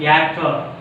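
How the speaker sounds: actor ending on a vowel; silent final R. Shown as a demonstration. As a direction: say "Actor" without the R at the end. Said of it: "R silent at the ending".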